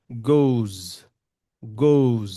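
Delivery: goes ending in a voiced z. Shown as a demonstration. Teacher correcting goes to end in z. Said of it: "this is not goes, but".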